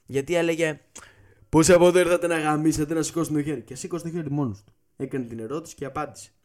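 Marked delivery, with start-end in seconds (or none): 1.5-3.6 mock hype shout. Party host shouting to crowd.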